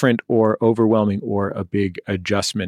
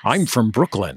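mock Brooklyn accent; bad American accent. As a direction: imitate an actor faking an American accent. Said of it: "speaking in an American accent in those movies".

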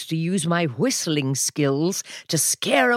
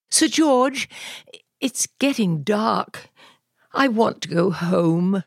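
little dragon voice; 4 semitones higher than usual. Acted. Little dragon speaking to knight.

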